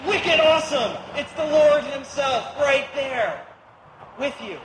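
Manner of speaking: jokey local-slang excitement; New England version. Pretend. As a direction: hype it like a Boston local. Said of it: "the New England Version".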